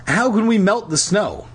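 high-pitched, worried wail; distressed girl. A narrator's reading. Lauren's distressed voice continues.

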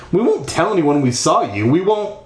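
plead, lifting the pitch toward the end. Acted. Trapped kid promising silence to the ghost, pleading. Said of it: "I pleaded".

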